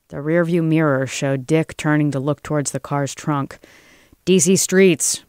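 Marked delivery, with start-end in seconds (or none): 4.3-5.2 higher, louder quick blurt. A narrator's reading. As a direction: blurt out an excuse. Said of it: "blurted Joel".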